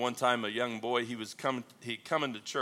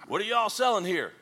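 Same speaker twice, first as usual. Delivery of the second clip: southern gentleman; 9 semitones higher, 6 dB louder than usual. Acted. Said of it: "and he said".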